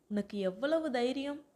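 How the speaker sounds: lightly acted indignant scolding, pitch lifting; mock telling-off like a mother; a touch of "how dare you" outrage; mild motherly scolding. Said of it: "அம்மாலாம் திட்டுவாங்க இல்லையா".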